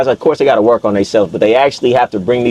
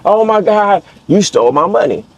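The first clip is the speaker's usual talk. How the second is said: high wailing imitation of a crying woman; mock loud crying; 7 semitones higher than usual. Woman crying that he stole her money, mock wail. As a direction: wail it like a woman pretending to sob. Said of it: "It was a loud cry".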